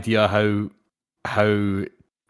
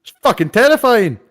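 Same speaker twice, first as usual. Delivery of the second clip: squeaky high voice; 12 semitones higher, 7 dB louder than usual. Acted. High put-on exclamation.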